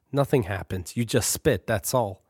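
lightly voiced patient older brother.

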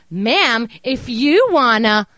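slow exaggerated parroting of "Ma'am, if you wanna"; mocking copy. Caller mocking the bank rep by parroting her, slow and taunting. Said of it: "I'm just copying the way you're talking to me".

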